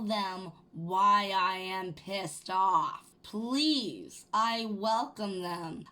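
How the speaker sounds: slow, pointed mock politeness; deliberate, emphatic welcome to the police; defiant invitation. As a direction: dare them to call the cops. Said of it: "And I said".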